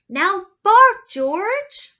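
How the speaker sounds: high, loud call; loud command. A narrator's reading. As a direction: order the dog. Mother commands.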